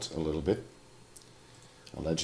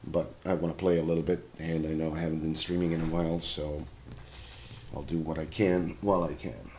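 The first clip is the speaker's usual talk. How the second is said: sore throat, hoarse and rough; hoarse sick voice. Real, not acted. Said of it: "I sound like a singer".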